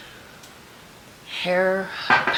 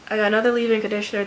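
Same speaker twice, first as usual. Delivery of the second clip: louder and quicker repeat; 5 dB louder, much faster than usual. Real, not acted. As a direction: repeat it for someone who missed it.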